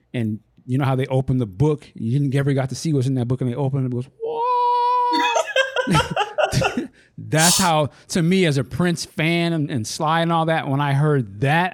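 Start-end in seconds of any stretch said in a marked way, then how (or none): 4.2-6.9 amazed gasp. Retold or imitated. Book opening, amazed reaction.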